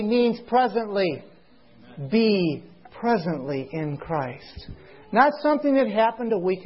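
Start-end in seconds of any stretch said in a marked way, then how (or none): 2.1-4.7 slow, lower, "Be" drawn out and set apart; stress on "Be". Shown as a demonstration. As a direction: stretch "Be", then measured through the rest. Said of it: "I want to emphasize the word".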